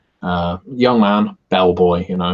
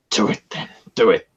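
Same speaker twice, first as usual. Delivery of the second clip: gritted-teeth growl; through clenched teeth; faster than usual. Acted. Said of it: "with clenched teeth".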